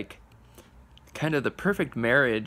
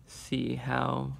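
talking around a cigar; cigar at lips; 5 dB quieter than usual. Real, not acted. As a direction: lips partly closed on cigar. Seen 0: cigar held at lips while speaking, then lowered, returns at 2.2.

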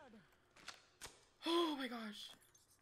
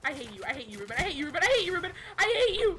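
crying with rage; 2 semitones lower, 5 dB louder, much faster than usual. Real, not acted. Blaming teammate Ruben.

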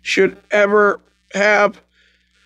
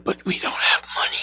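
eerie whisper; 6 dB quieter, faster than usual. Retold or imitated. Ghost mother speaks.

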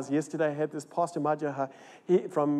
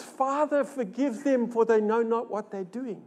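a tender prayer raised high; voicing Jesus, pleading; 5 semitones higher than usual. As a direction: lift it up gently as Jesus praying. Preacher voicing Jesus on cross.

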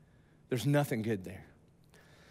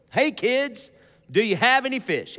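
playful ribbing of grown fishermen, slightly higher; teasing Jesus; 4 semitones higher than usual. Retold or imitated. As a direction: tease them like kids. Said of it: "Jesus is about to jack around with the disciples".

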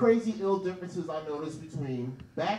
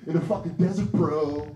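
a lightly voiced surfer-bro hippie, louder; laid-back hippie; 3 dB louder than usual. Comic imitating California hippies founding a city, lightly voiced surfer bro. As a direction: play a stoned California bro making plans. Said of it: "They're like".

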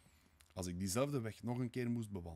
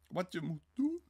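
high, louder startled cry; exclaiming; 10 semitones higher, 5 dB louder than usual. A narrator's reading. Sonja leaps up at his question, exclaiming. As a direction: cry the question back at him. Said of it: "riep zij uit".

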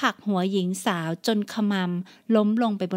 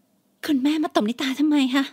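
higher, slow, pleading daughter; hurt young woman; 5 semitones higher, 3 dB louder, slower than usual. Acted. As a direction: ask through the sting of the slap. Slapped daughter asks why.

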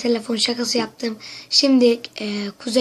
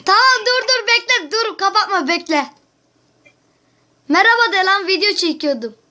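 gülerek; 7 semitones higher than usual. Real, not acted. Gülerek şakayı açıklıyor.

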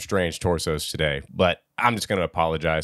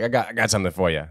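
mock De Niro; much faster than usual. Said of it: "De Niro".

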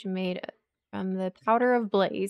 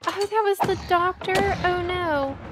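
dismayed surprise; 7 semitones higher, 5 dB louder than usual. Real, not acted. Realizes she hurt the doctor.

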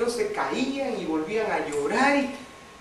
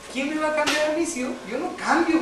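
high indignant retort; high mock-defiant I won't change; defiant protest; 8 semitones higher than usual. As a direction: push back high and defiant. Defiant retold inner protest.

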